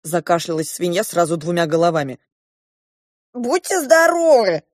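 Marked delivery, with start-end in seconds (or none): 3.3-4.6 higher, eager dwarf voice; bright high dwarf blessing; dwarf's bless you. A narrator's reading. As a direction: chirp it like a little dwarf. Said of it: "сказал карлик".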